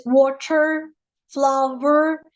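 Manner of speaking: slow American accent, R sounded at the end of "water" and "flower". Shown as a demonstration. Teacher showing students how Americans say it, American R. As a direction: draw out "water" and "flower" in American English, R pronounced. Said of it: "Americans producing this sound".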